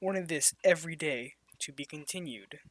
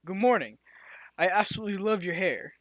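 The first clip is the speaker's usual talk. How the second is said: deep voice; 3 semitones higher, 5 dB louder, faster than usual. Acted. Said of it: "He said in a deep voice".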